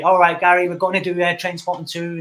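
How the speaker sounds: lightly imitated accent of a film director; Danny Boyle accent impression. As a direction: slip into a director's accent, half-hearted. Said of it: "I don't know why I done that accent".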